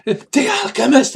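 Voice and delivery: high, loud panicked cry; frantic, terrified, pleading; panicked bandit. Acted. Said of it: "the bandit goes".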